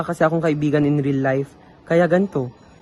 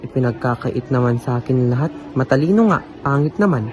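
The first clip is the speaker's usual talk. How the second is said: frustrated rant. Acted. Frustrated rant about perfection.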